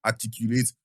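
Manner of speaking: slow, measured delivery; slow speech. Shown as a demonstration. Advising someone who isn't being understood, slow speech. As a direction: draw the words out so they can follow.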